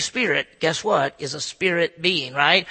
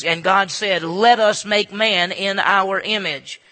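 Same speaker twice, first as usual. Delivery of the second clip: voice of God; 2 semitones higher, 7 dB louder, slower than usual. Acted. God's voice quoted in sermon.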